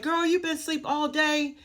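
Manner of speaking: high-pitched mock chiding of a sleeper; imitated aunt. Aunt waking her niece after work, imitated in a high voice.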